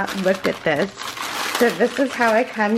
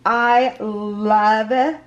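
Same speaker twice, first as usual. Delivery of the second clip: excited; 2 semitones higher, 4 dB louder, much slower than usual. Real, not acted. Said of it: "I'm even shaking".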